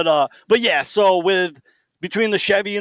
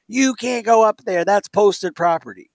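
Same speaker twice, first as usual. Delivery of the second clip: mock yell, pitched higher; retold yelling lady; 4 semitones higher than usual. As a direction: imitate a scolding neighbor calling across the street, slowing at the end. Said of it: "park lady yelling at us".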